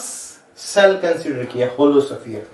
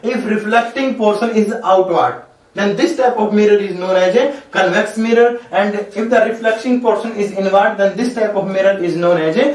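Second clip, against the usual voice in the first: words spaced out slowly for copying; slow dictation; much slower than usual. Shown as a demonstration. Teacher defining a mirror for notes, slow dictation. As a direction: read it out so they can write.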